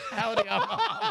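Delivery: high silly voice. Pretend. Same bit, higher pitch.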